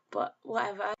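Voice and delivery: a touch of put-on British; British accent. Vlogger brushing off the slip, light British accent. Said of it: "talking in a British accent now".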